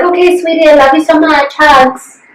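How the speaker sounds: a light imitation of a loving mother; sweet mom. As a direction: coo it like a doting mom. Mom's text voiced in story.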